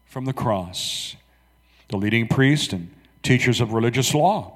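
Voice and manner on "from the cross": mocking taunt. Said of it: "They yelled at him".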